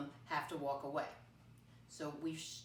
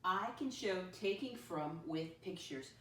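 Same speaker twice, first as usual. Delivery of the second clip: put-on slow, clear reading for kids; slow teacher read; slow read-aloud. Shown as a demonstration. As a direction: model the statement slowly. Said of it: "let me read the I can statement by myself".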